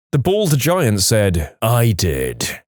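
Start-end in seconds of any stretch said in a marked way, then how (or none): 1.6-2.6 low, slow menacing answer; understated anger, pitched down; retold stern reply from a big man; very angry voice. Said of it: "in a very angry voice".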